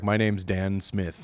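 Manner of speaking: slow, put-on Indian accent; imitated Indian accent. Caller introducing himself to a stranger, in an imitated Indian accent. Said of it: "he had the heaviest Indian accent".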